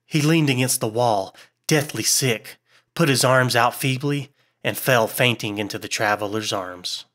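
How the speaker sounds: measured audiobook storytelling; story narration. A narrator's reading. Narrator telling listeners a horror tale, measured narration. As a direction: read a ghost story aloud, line by line.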